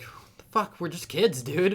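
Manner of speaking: loud, high outraged protest; indignant protest. Retold or imitated. Kids protesting to the angry driver, loud high outrage. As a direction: throw it back at him in disbelief.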